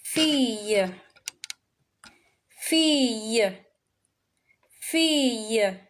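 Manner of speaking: Fille with the double L said as a y, fee-yuh; French fille. Shown as a demonstration. Teacher drilling the class on Fille, slow and clear. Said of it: "How do we say gal?".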